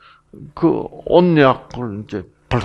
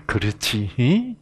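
tender Jeolla tag; 4 dB quieter, slower than usual. Retold or imitated. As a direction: coax gently with a rising 히 at the end. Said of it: "자상하게 조곤조곤".

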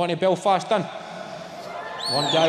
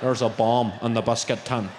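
low mock Northern Irish accent; 6 semitones lower than usual. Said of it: "That's a fucking accent".

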